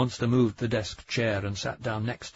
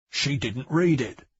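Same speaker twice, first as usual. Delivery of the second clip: slow, louder, leaning on read; emphatic confirmation; 4 semitones higher, 6 dB louder, slower than usual. Acted. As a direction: land each word firmly, read stressed. Munster repeats Bang's words, emphatic.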